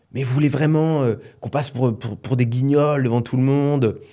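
mock indignant scolding at the family table; retold outburst. Retelling how the mother snapped over the fish knives, mildly mocking. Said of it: "Elle pète un câble".

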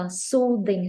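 "soothing" with a clearly voiced th in the middle. Shown as a demonstration. Teacher modelling the th sound for a student, voiced th in "soothing". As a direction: say "soothing" with a buzzing th, tongue between teeth. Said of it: "nhớ, cái này âm the".

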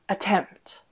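"attempt" with weak first syllable, stressed second. Shown as a demonstration. Teacher showing an iamb to students, second-syllable stress. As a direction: lean on the end of "attempt". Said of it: "second being stressed".

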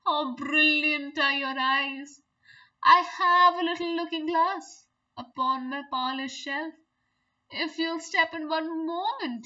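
a hint of a smooth flatterer; flattering spider. Spider praising the fly's wings to lure her, sugary. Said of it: "said the spider".

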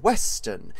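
Western set apart with a punched first syllable; emphasis on Western. Real, not acted. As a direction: stress the word Western. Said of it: "emphasis on the Western".

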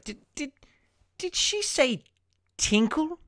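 can't believe what he just heard; incredulous. Acted. Director shocked the child sang tinkle, rising in disbelief.

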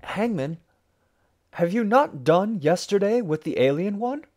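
high, protesting question; crying out. A narrator's reading. Townsfolk questioning the hangman next morning, crying out. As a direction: cry out to the hangman, pitch climbing. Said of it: "And we cried".

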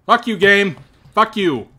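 furious shout at the game; angry yell. Real, not acted. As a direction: yell it in real frustration. Yelling at the game.

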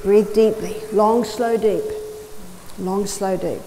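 steady, calm coaching voice, firm on each word; talking a panicking woman down steadily; firm but calm. Retold or imitated. Firm, calm instruction to a woman in panic. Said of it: "I spoke firmly but calmly".

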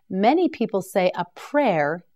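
ordinary talk, nothing marked

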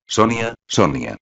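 a slow, drawn-out call, lightly voiced. A narrator's reading. Natasha calls Sonia to the window, slow, mild drawn-out call. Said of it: "gritó de nuevo la primera voz".

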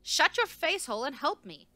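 high, loud, furious demand; screeching. A narrator's reading. Researcher pinned under the body demands help, screeching. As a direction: screech the order at him. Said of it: "Ndy screeched".

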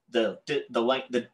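stumbling over the words; false starts, groping for the right word; halting, tripped-up search for a word; tongue-tied. Real, not acted. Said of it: "Can't talk today".

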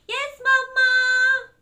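put-on high, loud, long-drawn child's yell; kids shouting. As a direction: sing it out like gleeful kids. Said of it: "the kids will shout".

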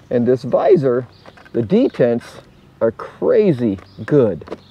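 muffled behind chin bar; speaking inside full-face helmet. Real, not acted. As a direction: voice through closed helmet. Seen 0: Helmet worn with chin bar until about 12s; then removed, on table.

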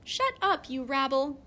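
put-on boy shouting as he throws a stone; shouted. A narrator's reading. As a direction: yell it at the hens. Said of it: "and shouted".

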